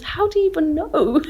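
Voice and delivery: high laughing disbelief; incredulous laughing quote. Retold or imitated. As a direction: laugh through the question. Mum's retorted quote, laughing.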